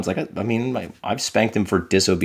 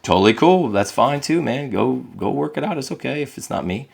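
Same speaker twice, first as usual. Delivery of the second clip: high, light and easygoing; breezy reassuring; 5 semitones higher than usual. Retold or imitated. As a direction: shrug it off kindly. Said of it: "I'm like".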